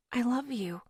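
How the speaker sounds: breathy unvoiced whisper. A narrator's reading. Woman whispers love into his shirt, unvoiced. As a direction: barely breathe the words. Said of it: "I whispered into his t-shirt".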